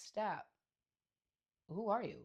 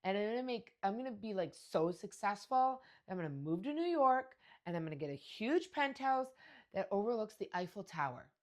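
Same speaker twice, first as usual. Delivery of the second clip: lightly voiced excited little girl; a hint of a dreamy child bragging; imitating young daughter; 4 semitones higher, 5 dB louder than usual. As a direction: play the kid dreaming big. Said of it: "she goes".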